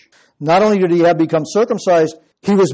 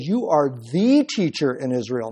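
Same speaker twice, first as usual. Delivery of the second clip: "the" stretched as "thee" before teacher; stress on "the"; 3 semitones lower, 3 dB quieter than usual. Acted. Jesus challenging Nicodemus as Israel's teacher, stressed "the". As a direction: lean on "the" to mean the one and only. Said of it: "not just a teacher".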